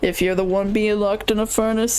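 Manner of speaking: a hint of a bratty spirit shrugging it off; lightly voiced cocky Heliobus. Voices Heliobus explaining itself.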